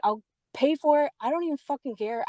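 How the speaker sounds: high, exasperated retold outburst. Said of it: "raising my voice".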